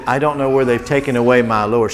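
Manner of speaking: quiet, sorrowful mock lament of a grieving woman; mild sad voice. To the children, Mary softly grieving for her Lord. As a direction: say it softly, like holding back tears. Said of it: "She is sad, isn't she? Big tears".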